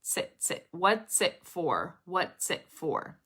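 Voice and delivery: "What's it for" slowly, as what-tsit-for; slow linking drill on "What's it for"; T-S connection. Shown as a demonstration. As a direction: isolate tsit, then say "What's it for" drawn out. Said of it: "It's that T S connection".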